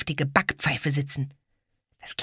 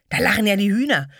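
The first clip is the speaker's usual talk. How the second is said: amused; 7 semitones higher, 5 dB louder, faster than usual. Acted. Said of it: "rief Ede, den das sehr belustigte".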